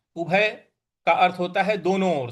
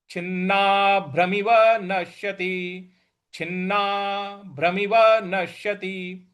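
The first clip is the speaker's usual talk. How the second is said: slow recitation. Shown as a demonstration. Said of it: "उस पर भी हमको बल लगाना है".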